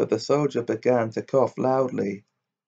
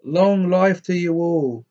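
crying out; 4 semitones higher than usual. Acted. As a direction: raise a mock toast to the robbers. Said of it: "brandished the bottle ... and cried".

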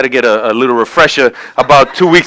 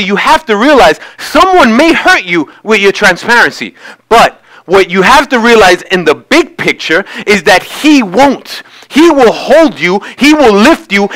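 higher-pitched, emphatic sermon delivery; impassioned preaching; 8 semitones higher than usual. Real, not acted. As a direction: preach it to the congregation with rising conviction. Preacher lifts into full preaching.

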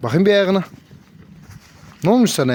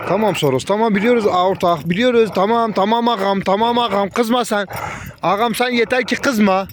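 soothing; 5 semitones higher than usual. Real, not acted. Kızgın hayvanı yatıştırıyor.

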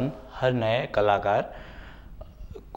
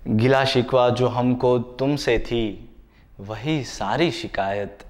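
ghazal recitation. Acted. Poet shares his ghazal of lasting love, reciting in measured phrases. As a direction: recite like a mushaira poet, letting each refrain settle.

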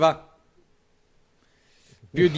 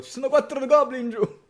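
hushed aside; 8 semitones higher, 6 dB quieter than usual. Acted.

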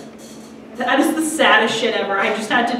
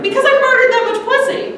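laughing punchline; 11 semitones higher, 5 dB louder, faster than usual. Retold or imitated. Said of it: "He's like".

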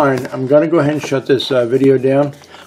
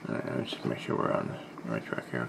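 whispering; 18 dB quieter than usual. Real, not acted. Mutters to himself while checking.

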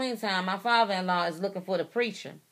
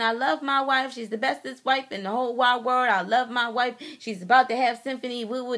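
higher-pitched mock gushing; gushing imitation; 4 semitones higher, 4 dB louder than usual. Wife quoting husband's loving texts to the preacher, gushing imitation. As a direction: rattle off his adoring praise in a raised pitch. Voicing husband's adoring text messages.

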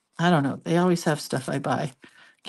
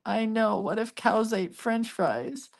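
soft, higher, drawn-out echo; hushed mock wonder for a grandchild; playing along; 5 semitones higher, 5 dB quieter than usual. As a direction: humor a small child, slow and pitched up. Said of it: "And I go".

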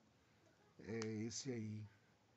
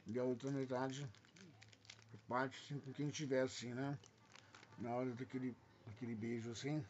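mouth full. Real, not acted. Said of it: "é feio falar de boca cheia".

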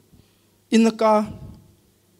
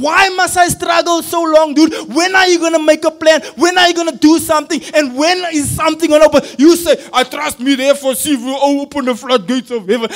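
frustrated pleading; 3 dB louder than usual. Acted. Acted frustrated challenge to God.

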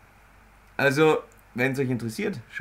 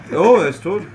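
surprised; 6 semitones higher, 10 dB louder than usual. Real, not acted. Surprised at the kill.

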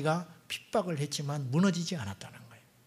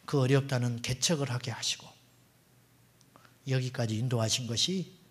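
ordinary talk, nothing marked

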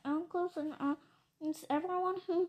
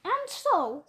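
Lorax speaking; 4 semitones higher, 6 dB louder than usual. Acted. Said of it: "said the Lorax".

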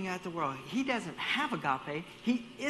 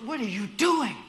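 loud, high mock yell; replayed road rage; 5 semitones higher, 7 dB louder than usual. Shown as a demonstration. Replaying the scene to Brenton, loud annoyed yell. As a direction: snap at the other driver. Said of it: "let's replay this scenario".

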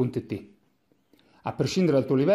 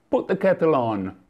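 English request. Retold or imitated.

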